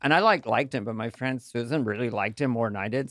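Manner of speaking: put-on lightly done Valley Girl lilt; hint of a Valley Girl rhythm. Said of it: "where the Valley Girl rhythm came from".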